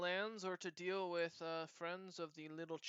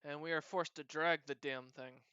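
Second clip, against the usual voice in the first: put-on cat-girl voice; 3 semitones higher than usual. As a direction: tell it eagerly like a chatty cat-girl. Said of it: "she looks at you and says".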